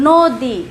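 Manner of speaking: নদী said as "nodi", its অ sounding like ও; নদী, অ ও-এর মতো; o-like vowel. Shown as a demonstration. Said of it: "ও ধ্বনির মতো উচ্চারণ".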